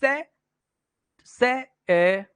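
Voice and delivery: से alone and slow, then its vowel ए held; slow teacher's breakdown of से into its vowel; syllable sounded out. Shown as a demonstration. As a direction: isolate से, pause, then draw out ए. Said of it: "अगर हम बोलें तो क्या आएगा".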